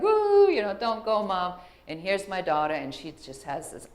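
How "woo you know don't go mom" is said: put-on high wailing child's plea; mock child begging mom to stay; imitating a crying child. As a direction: wail it like a clingy kid, much higher and louder. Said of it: "and like".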